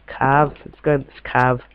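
mock-posh, "cave" said as "cahv"; posh accent. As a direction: put on a posh British accent. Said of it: "I don't know why I'm speaking so posh".

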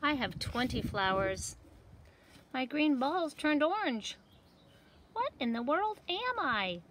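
lively seed voices for a picture book; talking seed characters. Acted. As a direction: voice the little seeds for kids. Seeds describe their growth.

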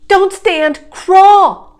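high, loud warning; urgent command. A narrator's reading. Jack stopping Annie from standing, urgent loud command. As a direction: order it forcefully, hitting the last word hardest.

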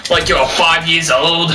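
lightly put-on Scottish accent; badly faked Scottish griping; mock Scottish accent. Mocking a player on the stairs, mock Scottish accent. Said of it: "I'm a Scottish, just by the voice".

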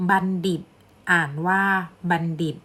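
บัณฑิต read "ban-dit", with a d. Shown as a demonstration. Teacher reading an example to students, บัณฑิต with a d sound. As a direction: say บัณฑิต in two clear syllables, d starting the second. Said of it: "ทอมุนโทออกเสียงดอนะคะ".

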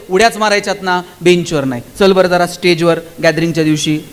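a hint of a teacher reasoning with a pupil; coaxing teacher. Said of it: "त्याला सांगावं लागेल".

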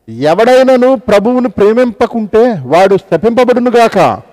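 slow, weighty curse from scripture; solemn warning. Acted. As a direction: drive the warning home.

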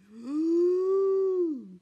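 loud sharp in-breath; wolf filling his lungs; big huffing gasp. A narrator's reading. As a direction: suck in air to blow. Wolf drawing huge breath.

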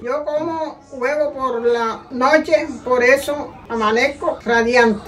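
slow, deliberate script reading. Shown as a demonstration. Mother reading last egg line, slow reading. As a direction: read carefully, word by word. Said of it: "léelo lento y mirando la cámara".

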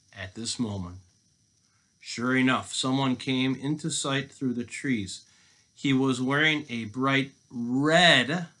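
drawn-out, animated storytelling; read-aloud full of anticipation; suspenseful story narration. A narrator's reading. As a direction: stretch key words to build suspense. Reads a story to children.

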